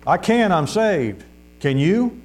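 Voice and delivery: high, drawn-out retort, mildly called out; hollering back. Retold or imitated. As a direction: call the comeback slowly across the yard. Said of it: "what he hollered back".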